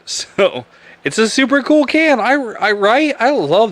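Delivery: laughing, voice jumping high; giggly and high, delighted with the can. Real, not acted. Showing off a beer can to viewers, laughing high.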